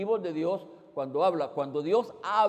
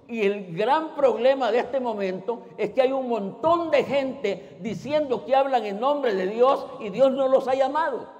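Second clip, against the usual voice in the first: fiery preaching; 5 semitones higher, 5 dB louder than usual. Real, not acted. Denuncia falsos profetas con fuerza.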